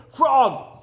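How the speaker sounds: high, loud call across the river; loud shout. A narrator's reading. Toad calling across the river to Frog, loud. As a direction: call him from far away. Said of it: "he shouted".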